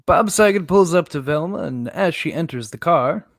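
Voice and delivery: loud game master's scene setting; story narration. Acted. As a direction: set the scene loudly for the players.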